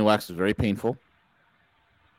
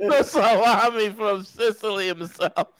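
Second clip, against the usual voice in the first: high, slow hammed-up announcer; hype announcer voice; 10 semitones higher, slower than usual. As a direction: ham up the big intro. Hyped-up guest intro continues.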